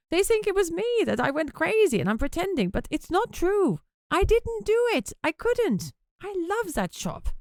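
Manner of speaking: plead, voice strained with upset; distressed pleading. A narrator's reading. Flo desperate denial.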